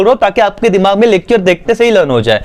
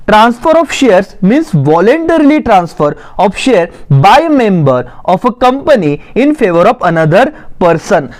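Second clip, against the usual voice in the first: slow, measured reading for note-takers; dictation reading; much slower than usual. Acted. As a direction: read out the definition slowly, phrase by phrase. Reads notes aloud for dictation. (धीरे-धीरे notes लिखवाते हुए पढ़ना)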